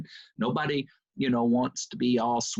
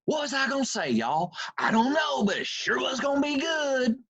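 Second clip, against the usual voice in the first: high, Southern East Texas twang; Joel Osteen's twang; 13 semitones higher than usual. Retold or imitated. Quoting Joel Osteen after he forgot his line, Southern twang. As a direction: East Texas twang, pitched up and sing-song. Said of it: "Now, he talks like that".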